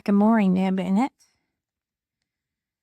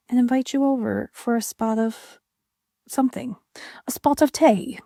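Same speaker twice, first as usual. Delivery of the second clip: bad British accent; 3 semitones higher than usual. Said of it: "British accent should never happen".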